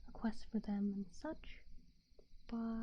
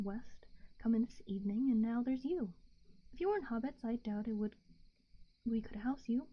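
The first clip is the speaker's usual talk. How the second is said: hushed bedtime story narration; whispered story reading; 3 dB louder than usual. A narrator's reading.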